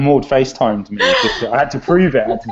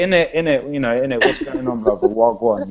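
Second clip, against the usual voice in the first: London street talk. Shown as a demonstration. Asked to throw in innit, casual London street accent. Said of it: "Can you throw an in it".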